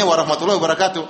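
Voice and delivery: "warahmatullahi wabarakatuh" said as the whole Arabic phrase; abbreviation read out in full. Shown as a demonstration. Teacher showing students the proper reading, full "warahmatullahi wabarakatuh". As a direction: expand the initials into "warahmatullahi wabarakatuh". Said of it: "ente tahu bacanya".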